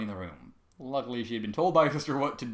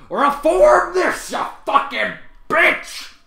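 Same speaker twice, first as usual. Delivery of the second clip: very loud, much higher, slow scream; screamed curse; 15 dB louder, much slower than usual. A narrator's reading. Trevor screams at Celestia through the roof, loud. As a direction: scream it at the ceiling. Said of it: "screamed at the roof".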